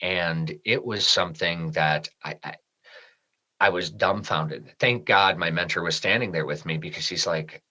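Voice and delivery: quiet, emotional recollection of the sick mother; hushed and moved. Real, not acted. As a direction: let the words sink as the memory hurts. And I started crying right there.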